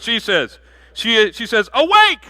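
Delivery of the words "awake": sudden high, loud cry of awake; bride's call. Acted. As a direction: fling it out like a wake-up call.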